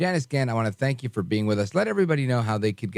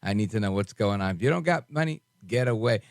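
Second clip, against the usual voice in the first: half-joking, pitched up high, demanding; playfully bossy, pitched up high; mock demanding; 5 semitones higher than usual. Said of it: "I'm just being facetious".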